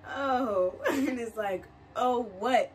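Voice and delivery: laughing through an unimpressed oh; mock the awkward reply while laughing; giggly imitation of a flat oh; laughing mock reaction. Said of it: "they're like".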